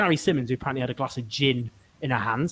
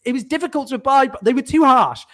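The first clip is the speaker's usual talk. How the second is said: mock politician's excuse; 4 semitones higher, 4 dB louder than usual. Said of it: "his new tack is to go".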